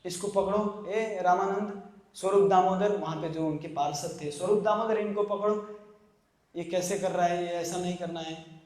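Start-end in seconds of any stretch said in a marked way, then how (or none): 0.0-3.0 a teacher's put-on anger, half in earnest; mock scolding. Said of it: "Chaitanya Mahaprabhu क्रोधित होते हैं". 4.3-8.6 feigned anger to teach a lesson; mock scolding. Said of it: "Chaitanya Mahaprabhu क्रोधित होते हैं".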